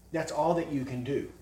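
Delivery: ordinary delivery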